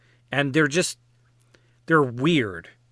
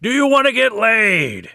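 higher, louder, feral growl of a come-on; wild animal voice; 8 semitones higher, 5 dB louder than usual. Retold or imitated. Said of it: "like a wild animal".

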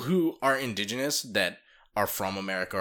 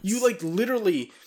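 loud whisper; 12 semitones higher, 5 dB louder than usual. Real, not acted. Ranting about Japanese history.

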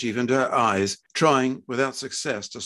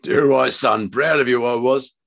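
hearty, louder fatherly voice; proud working-class father; 7 dB louder than usual. Acted. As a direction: play a proud dad, forceful and firm. Father's voice in narrated story.

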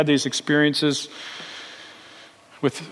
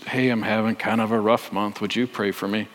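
hushed, low, voiced murmur; retold whisper; 7 semitones lower, 6 dB quieter than usual. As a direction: lean in and ask it like a secret, quietly. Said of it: "whispers to me".

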